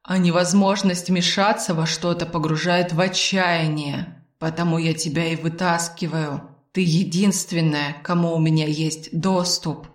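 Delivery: subdued, unhurried admission; Arvil, lonely confession. Acted. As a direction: confide it with understated melancholy.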